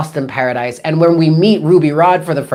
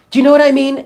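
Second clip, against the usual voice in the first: raised, higher-pitched priest asking a robot; movie priest's question; 10 semitones higher, much faster than usual. Retold or imitated. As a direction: ask it high, imitating the movie priest. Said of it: "he turns to this robot and he goes".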